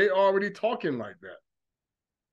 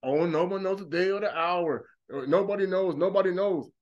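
mocking believer; 2 semitones lower than usual. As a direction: parody the gullible believer, dismissive. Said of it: "brainwashed Christian mindset".

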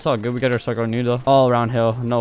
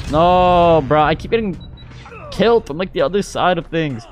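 exasperated; 5 semitones higher than usual. Real, not acted. Gamer complains about being killed.

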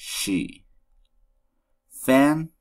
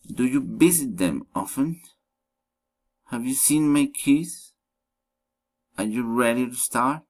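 "Are you ready to start" climbing at the end; teacher's yes-no question, lift the end of "Do you visit them often"; rising question intonation. Shown as a demonstration. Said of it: "rising intonations".

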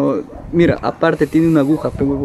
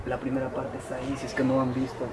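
hushed, barely audible aside; nervous night vlog whisper; 13 dB quieter than usual. Real, not acted. Quiet aside at night cemetery.

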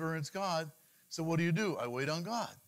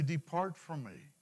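measured, lightly voiced judgement of God; God's rejection; 4 semitones lower than usual. God turns away the worker of iniquity, understated solemn rejection. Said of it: "He's gonna say".

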